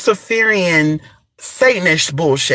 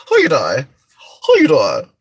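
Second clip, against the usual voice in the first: low, husky just-woke-up greeting; raspy wake-up voice; 6 semitones lower than usual. Shown as a demonstration. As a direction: show off a croaky morning voice. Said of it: "what I sound when I first wake up".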